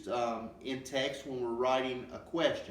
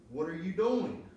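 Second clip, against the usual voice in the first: higher-pitched emphatic challenge; 5 semitones higher, 3 dB louder than usual. Shown as a demonstration. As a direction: demonstrate an emphatic "What are you doing". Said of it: "say that with an emphatic tone".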